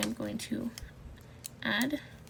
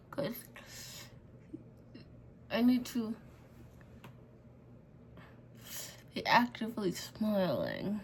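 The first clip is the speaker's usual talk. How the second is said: mouth propped open. Real, not acted. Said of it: "I can't close my mouth".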